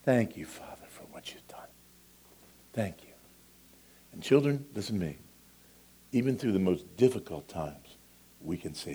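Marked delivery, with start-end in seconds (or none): 0.0-3.1 quiet thanks. Acted. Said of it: "when we say".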